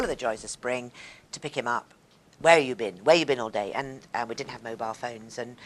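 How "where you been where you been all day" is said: demanding husband. Retold or imitated.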